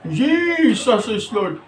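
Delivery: slow mocking Jesus is Lord; a second drawn-out mock cry; mock shout. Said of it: "Sumisigaw pa eh". (pasigaw na panggagaya, mabagal)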